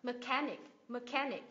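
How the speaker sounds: "Mechanic" with CHAN stressed; weak "me", strong CHAN in "Mechanic"; stress before last syllable. Shown as a demonstration. Teacher drilling IC words, stress on CHAN in "Mechanic". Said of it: "nhấn vào âm tiết ngay trước đó".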